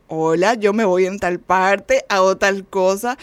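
lightly acted, slow statement to an official; traveler at checkpoint. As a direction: recite your travel plan slowly, item by item. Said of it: "cada uno tenía que hablar". (viajero declarando despacio, levemente actuado)

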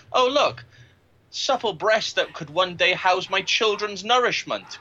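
high, overblown poetic gushing; mock refined admirer. To his podcast co-host, mocking how men see women: high poetic gushing. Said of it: "It's more like".

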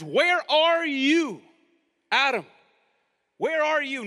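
loud, drawn-out searching call. Acted. God searching the garden for Adam, calling out.

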